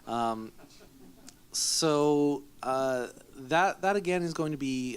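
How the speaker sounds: clearing a bug from the throat; just swallowed a bug. Real, not acted. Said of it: "swallowed a bug or something".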